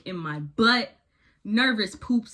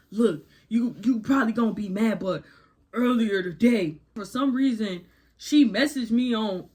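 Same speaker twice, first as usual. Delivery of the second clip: lightly put-on dopey boyfriend voice; stupid voice for boyfriend. Boyfriend explaining the Facebook message, in a mocking stupid voice. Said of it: "I'm making this stupid voice on purpose".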